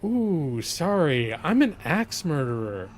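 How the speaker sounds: gently refuse, matter-of-fact; lightly voiced sheepish killer turning down the hatchet; apologetic axe murderer. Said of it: "And he's like".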